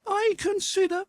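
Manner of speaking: put-on angry young girl nearly shouting at her brother. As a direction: burst out in outrage. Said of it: "Natasha suddenly almost shouted".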